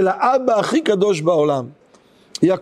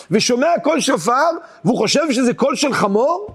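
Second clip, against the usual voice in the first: raised pitch, questioning rise on חמור; incredulous question; 3 semitones higher than usual. Real, not acted. Rabbi questions the Gemara's answer to his listeners, incredulous. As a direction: challenge it as absurd, ending high on חמור.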